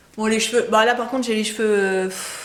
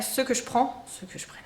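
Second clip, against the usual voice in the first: trailing off tired; 3 semitones higher, 7 dB quieter than usual. Real, not acted. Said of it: "je me fatigue".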